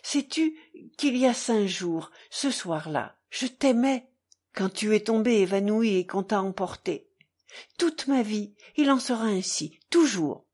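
fervent declaration in short bursts; earnest, with pauses between phrases; halting word by word. A narrator's reading. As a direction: break the vow into short phrases. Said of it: "dit Mitya en s'arrêtant à chaque mot".

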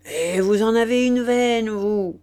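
crie plus fort, enthousiaste; cri. Acted. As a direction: lancer haut et fort une félicitation. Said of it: "cria-t-il". (crier avec emphase)

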